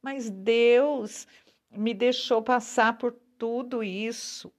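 understated, acted indignation; mildly indignant. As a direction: voice a mildly cross complaint. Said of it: "A gente fica até meio bravo".

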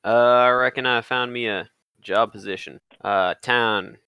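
light Old West drawl, a hint of cowboy twang; cowboy accent. Jonah talking to fellow travelers in a light cowboy accent. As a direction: play it like a homespun frontier fella, lightly. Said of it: "I'm gonna stop doing the accent now".

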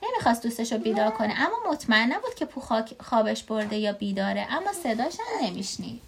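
lively read-aloud with swooping intonation; story reading to a child. A narrator's reading.

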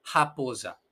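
"japosa" begun with a throaty h sound; "japosa" with a raspy back-of-throat start. Shown as a demonstration. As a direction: breathe out a guttural h to open "japosa". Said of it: "vamos a decir ja".

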